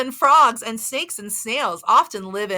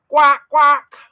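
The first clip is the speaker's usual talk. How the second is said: duck quack; 3 semitones higher, 7 dB louder than usual. Pretend. Duck sound for kids.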